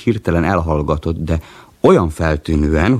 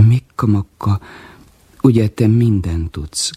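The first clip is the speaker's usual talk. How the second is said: slow, hopeful asking, pitched up; 4 semitones higher than usual. Acted. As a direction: ask it full of hope, slowly. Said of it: "kérdezte reménykedve".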